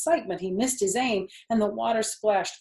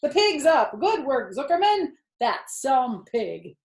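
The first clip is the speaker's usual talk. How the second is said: loud, high excited yelling; crowd yelling; 7 semitones higher, 7 dB louder than usual. Acted. Crowd yelling happily that the pig is up. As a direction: shout the news to everyone. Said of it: "yelled the crowd".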